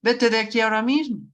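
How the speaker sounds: mildly cross, brisk command; quick imperative with a touch of anger; acted angry order. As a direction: order someone away, mid-quarrel. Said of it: "que están peleadas o están a medio pelearse".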